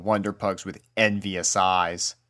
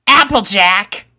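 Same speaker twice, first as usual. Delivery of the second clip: high, loud, sharp snap; a friend who let the pups out; snapping; 11 semitones higher, 7 dB louder than usual. A narrator's reading. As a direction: bite off the name in anger. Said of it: "she snapped".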